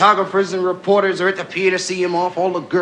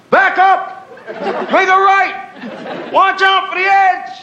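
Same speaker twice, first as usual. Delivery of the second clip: goofy orders; 10 semitones higher, slower than usual. Acted. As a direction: bark silly orders at the crew. The speaker goofing, calling orders.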